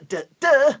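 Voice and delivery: high, loud "duh duh"; dramatic sting imitation. Shown as a demonstration. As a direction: voice a suspense music sting. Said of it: "we're not gonna do duh".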